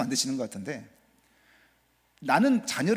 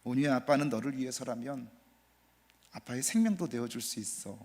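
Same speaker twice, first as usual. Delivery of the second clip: tender confession; 3 semitones lower, 3 dB quieter than usual. Retold or imitated. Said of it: "제가 이렇게 고백했습니다".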